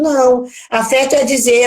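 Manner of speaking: normal talking voice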